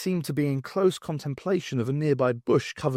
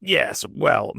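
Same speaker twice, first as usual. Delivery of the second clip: gruff; 3 dB louder than usual. Acted. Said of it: "the Brigadier said gruffly".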